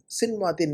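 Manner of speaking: سنواتن as "sin-waa-tin"; mispronunciation. Shown as a demonstration. Teacher tells student it is wrong, mispronunciation. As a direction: say سنواتن with a closed "sin" opening. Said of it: "سنواتن نہیں".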